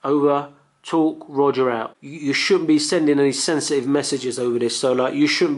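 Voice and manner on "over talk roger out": slow, clipped radio procedure; radio call demo. Shown as a demonstration. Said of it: "and then, like".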